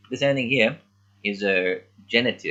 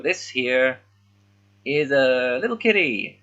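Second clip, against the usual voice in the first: cute little voice; 5 semitones higher, 3 dB louder, slower than usual. Shown as a demonstration. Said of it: "is like a diminutive".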